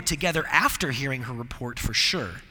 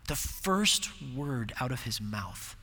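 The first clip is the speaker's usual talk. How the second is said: hushed repeat; 3 semitones lower, 7 dB quieter, slower than usual. Real, not acted. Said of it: "And the first word out of his mouth".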